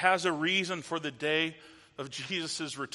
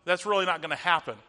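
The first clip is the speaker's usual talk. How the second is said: loud, dismissive brush-off; mock dismissal, quickening at the end; mocking scoffer; 2 semitones higher, 6 dB louder than usual. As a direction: imitate a scoffer waving the claim away. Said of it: "These scoffers are mocking".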